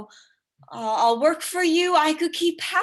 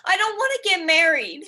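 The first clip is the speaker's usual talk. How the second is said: loud, half-sobbing plea; tearful plea; 5 semitones higher, 5 dB louder than usual. Acted. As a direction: beg Papa through shaky laughter-tears. Bride panicking to her father.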